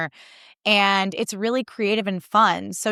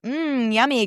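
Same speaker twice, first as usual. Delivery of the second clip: higher-pitched mock savoring hum; put-on yummy enthusiasm; mock delight; 5 semitones higher, slower than usual. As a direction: pretend it's delicious, sarcastically. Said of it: "supposed to be like".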